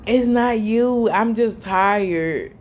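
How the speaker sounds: slow, drawn-out brush-off; mock weary mom excuse; dismissive tired excuse. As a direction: drag it out like you can't be bothered. Mom brushing off child's question.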